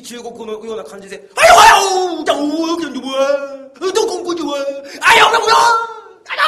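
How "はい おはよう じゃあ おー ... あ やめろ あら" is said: high, loud fake Chinese shouting. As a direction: babble in mock Chinese movie style. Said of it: "うろ覚えのインチキ中国語のような感じで".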